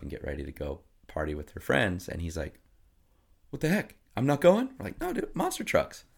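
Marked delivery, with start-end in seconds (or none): 3.5-4.7 high outraged disbelief, pitched well up; the son protests he can't go; indignant kid. Retold or imitated. Son protests being left out. 5.0-6.0 teasing no. Retold or imitated. Parents tell son no.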